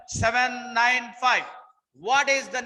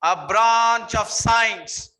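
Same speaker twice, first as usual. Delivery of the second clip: slow dictation; 6 dB louder, much slower than usual. Shown as a demonstration. Teacher dictating a definition.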